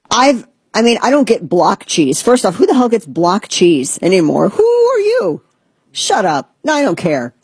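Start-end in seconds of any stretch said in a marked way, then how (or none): none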